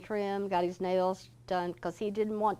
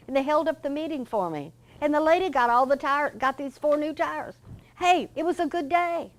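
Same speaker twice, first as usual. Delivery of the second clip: retold easygoing boss voice, pitched much higher; cheerful Mister George; 8 semitones higher, 6 dB louder than usual. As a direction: brush off the apology lightly and brightly, as Mister George.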